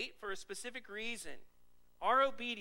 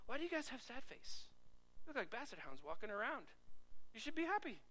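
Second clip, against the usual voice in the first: chiding voice pitched higher, rising up; mock Joseph; 4 semitones higher, 4 dB quieter than usual. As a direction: tease them like Joseph in the prison. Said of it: "He said".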